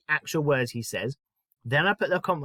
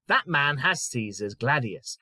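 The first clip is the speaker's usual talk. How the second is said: slow read; slower than usual. Shown as a demonstration. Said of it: "So let's take the first one".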